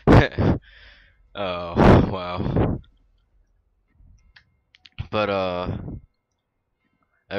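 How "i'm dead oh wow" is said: normal talking voice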